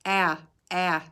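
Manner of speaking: "a, a" as a short a, jaw dropping; teacher modelling the short a sound. Shown as a demonstration. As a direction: drop the chin for a short "a". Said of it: "A makes the sound".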